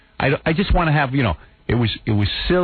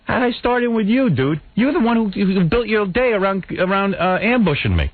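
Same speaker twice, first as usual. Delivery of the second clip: much higher, exasperated pushback; retold indignation; 8 semitones higher than usual. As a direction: sound fed up and incredulous. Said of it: "I said".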